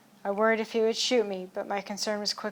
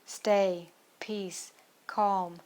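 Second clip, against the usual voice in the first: soothing command; much slower than usual. Acted. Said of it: "I commanded".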